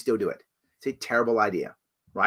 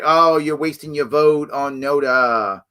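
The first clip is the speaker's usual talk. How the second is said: mocking critic; slower than usual. Mocking third-party critics.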